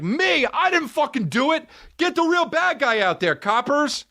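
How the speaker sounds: high, yelling defendant, furious and indignant; imagined courtroom outburst. Pretend. Wrongly accused man yelling at the court, furious. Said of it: "And I'd be like".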